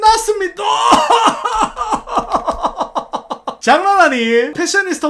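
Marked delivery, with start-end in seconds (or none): 0.7-3.5 high, drawn-out laugh; cracking up at the settlement; long laugh. Real, not acted. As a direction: laugh long at the final loss. Laughing at final tally.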